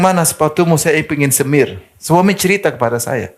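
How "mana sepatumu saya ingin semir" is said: retold dying wife. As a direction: raise the voice in awe of her devotion. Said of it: "dia bilang". (menirukan istri yang sakit parah)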